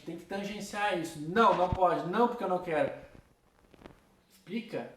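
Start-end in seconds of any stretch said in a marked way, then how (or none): 1.2-2.9 a louder, blunt no with no explanation; curt flat refusal. Retold or imitated. Teacher mimicking a parent who refuses without explaining, curt and loud. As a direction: shut the request down hard. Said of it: "Não dizer não pura e simplesmente".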